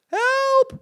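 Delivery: very high, loud scream for help; roaring. A narrator's reading. Lady as mice leap at her face, roaring. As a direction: yell it in full panic. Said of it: "brulde de mevrouw".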